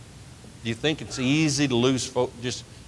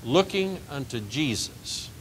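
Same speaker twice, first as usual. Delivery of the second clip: slow soft recitation; 6 dB quieter, slower than usual. Shown as a demonstration. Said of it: "Verse two".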